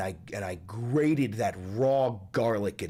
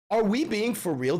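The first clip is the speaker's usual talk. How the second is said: higher, stunned disbelief; incredulous; 9 semitones higher than usual. Real, not acted. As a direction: ask it like you can't believe it.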